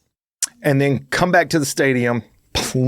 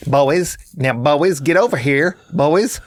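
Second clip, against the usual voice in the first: mock weak dad; slower than usual.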